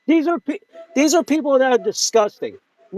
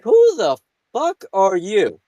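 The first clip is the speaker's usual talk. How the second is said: imagined angry retort; slower than usual. Retold or imitated. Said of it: "I didn't say it like that, but I wanted to".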